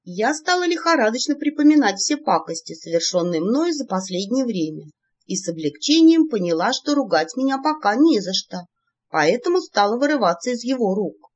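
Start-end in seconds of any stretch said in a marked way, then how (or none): none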